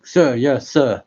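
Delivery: loud sir yes sir through a mask; muffled through the mask. Acted. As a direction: call it out muffled behind a mask. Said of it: "You want me to try saying".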